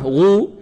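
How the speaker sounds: غو on a long rounded oo; heavy rounded ghayn. Shown as a demonstration. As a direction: say غو thick, with rounded vowel. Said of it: "وإذا كانت مضمومة".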